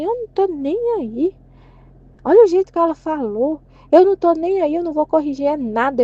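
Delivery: put-on indignation, pitch jumping up; defiant refusal. Acting out her possible defiant reply.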